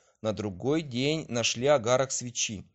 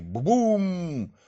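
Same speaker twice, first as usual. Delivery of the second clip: a loud scary boom, much higher; louder thunder; 8 semitones higher, 5 dB louder than usual. A narrator's reading. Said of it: "ещё громче и страшнее".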